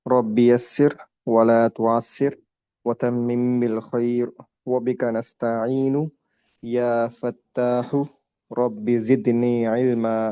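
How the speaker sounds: slow, measured Arabic prayer chant; slow prayer recitation. Real, not acted. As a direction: recite each phrase slowly and devoutly. Teacher recites opening prayer. (آہستہ دعا کی تلاوت)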